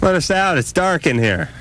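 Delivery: a hint of a squeaky little elf. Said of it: "And those little elf voices".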